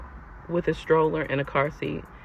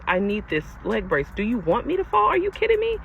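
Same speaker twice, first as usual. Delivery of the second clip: incredulous; 6 semitones higher than usual. Retold or imitated. Retelling arguing with boyfriend.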